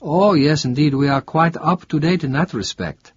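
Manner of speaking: a lightly voiced Italian barman; chatty local in a trattoria; friendly Italian bartender. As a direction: bartender welcoming a tourist. Bartender proud of town.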